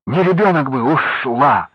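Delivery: high, loud furious cry; angry shout. Acted. Wife angrily shouts she would have left him, high and loud. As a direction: snap it at him in fury. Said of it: "гневно крикнула".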